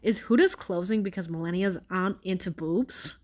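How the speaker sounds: light New York accent, reading a headline; a mild Brooklyn twang on the headline. Shown as a demonstration. Reading a tabloid headline aloud, mild New York accent. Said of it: "Let me do this in a fucking New York accent".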